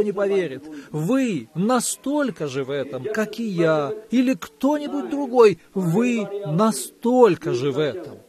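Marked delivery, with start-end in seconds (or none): none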